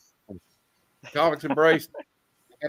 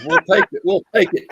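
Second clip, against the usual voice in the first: eager excited; 5 semitones higher, 7 dB louder than usual. Retold or imitated. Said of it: "And says".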